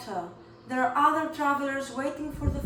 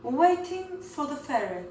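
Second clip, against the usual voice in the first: posh; 3 semitones higher than usual. Shown as a demonstration. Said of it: "That was very posh".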